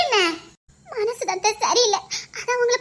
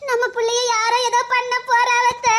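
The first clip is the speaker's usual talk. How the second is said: tearful wail. Acted. Daughter-in-law warning mother-in-law of her bad dream, tearful wail. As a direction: wail it, stretching the final word into sobs. Acted alarm over dreamed kidnapping.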